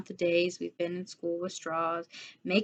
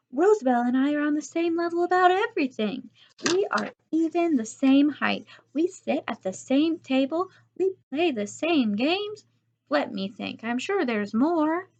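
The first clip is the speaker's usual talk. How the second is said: pleading case; 7 semitones higher, 3 dB louder than usual. A narrator's reading. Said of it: "trying to convince the teacher".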